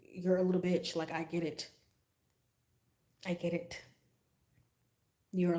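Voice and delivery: soft, contemptuous inner monologue; quiet sarcastic dismissal. Retold or imitated. Thinking the coworker is a loser, quietly dismissive. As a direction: mutter the insult under your breath.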